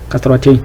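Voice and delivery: name Kasratein distinctly; teacher naming the mark; demo word. Shown as a demonstration. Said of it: "On va appeler ça kasratein".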